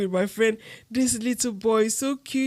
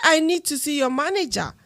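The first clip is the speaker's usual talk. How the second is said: insisting on seeing the manager, voice rising; raising voice; 6 semitones higher than usual. Retold or imitated. At the welfare office, demanding the manager with a rising voice. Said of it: "I started raising my voice now".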